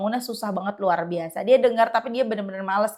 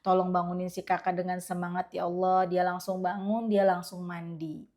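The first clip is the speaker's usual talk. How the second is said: softer whispered-feeling plea to God; prayer in the heart; 5 semitones lower, 7 dB quieter than usual. Retold or imitated. Mother praying silently to wake her child, softly. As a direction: pray inwardly, gently asking for help. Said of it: "dalam hati aku ngomong".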